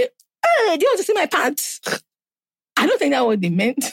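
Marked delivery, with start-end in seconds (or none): 0.0-1.8 creepy flirt. Retold or imitated. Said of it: "when people say".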